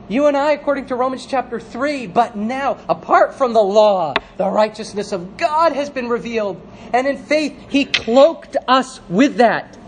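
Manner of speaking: earnest, lifted preacher voice; impassioned preaching. Real, not acted. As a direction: proclaim it to the whole congregation. Preaches righteousness to congregation.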